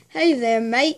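lightly put-on Australian accent. Friend showing they can do it, light Australian accent. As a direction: greet them like an Aussie. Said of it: "I can do Australian".

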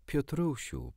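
a light, excited Wendy calling his name. Acted. Wendy, thrilled, calling to Peter with mild excitement. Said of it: "powiedziała podekscytowana Wendy".

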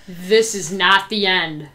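slow, weighty announcement; dramatic. Acted. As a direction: drag it out for drama.

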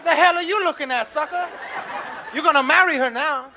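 high, loud challenge; angry brother. Acted. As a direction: confront the man ogling your sister. Angry brother confronts gawker.

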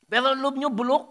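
preacher condemning rotten hearts; forceful denunciation. Real, not acted. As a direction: spit out the verdict. Preaching climax.

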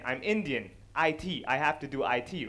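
ordinary delivery

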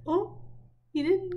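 high, loud surprised gasp. Real, not acted. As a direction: react in shocked delight. Surprised at dog fooled.

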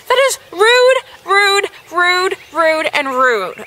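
scolding the rude quiz answer; indignant. Real, not acted. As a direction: hammer rude in outrage.

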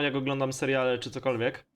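ordinary talk

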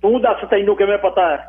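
mildly imperious challenge; overbearing. A narrator's reading. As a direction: demand an answer with authority. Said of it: "ਬਾਬੇ ਨੇ ਰੋਹਬ ਨਾਲ ਪੁੱਛਿਆ".

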